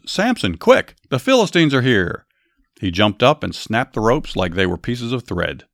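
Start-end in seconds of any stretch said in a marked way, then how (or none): 0.1-2.3 higher, louder urgent warning; urgent yell. A narrator's reading. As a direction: yell at Samson that the enemy is here. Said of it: "She yelled".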